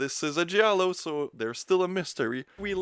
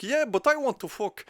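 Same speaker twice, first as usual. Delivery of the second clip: higher mock boyfriend insisting; mock insistent boyfriend; 7 semitones higher than usual. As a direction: whine it like the pushy boyfriend, pitched up. Acted couple's quarrel, his insistence.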